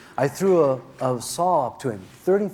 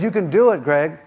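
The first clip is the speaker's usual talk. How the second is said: cheering on; 2 semitones higher, 7 dB louder than usual. Retold or imitated. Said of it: "he's a cheerleader".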